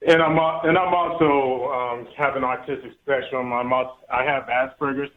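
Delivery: halting, with false starts and restarts; stuttering. Real, not acted. Caller explaining his condition to the hosts, stuttering. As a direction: stumble over the phrase and begin it over. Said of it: "So excuse me from stuttering".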